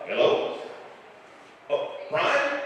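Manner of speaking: hint of a mumbling Texan drawl; Boomhauer. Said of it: "I thought I'd called Boomhauer".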